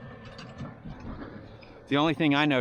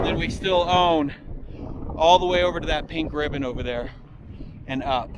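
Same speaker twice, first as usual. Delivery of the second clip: shouting over wind; 4 semitones higher, 4 dB louder than usual. Real, not acted. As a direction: raise the voice against the wind. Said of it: "it's so windy up here".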